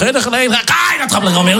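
gleefully building the chaos; excited telling. Retold or imitated. Telling friends about the chaos, excited and slow.

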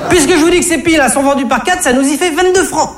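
high, squeaky exasperated cashier voice; yelping annoyed cashier. Acted. Comedian playing the irked cashier, high yelping voice. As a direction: yelp it out with an irritated sigh, way up high.

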